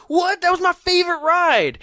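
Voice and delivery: very high, loud disbelief; mock astonished. Narrator reacting to a kid's thumbs-down, high mock disbelief. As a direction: shriek it in outraged disbelief.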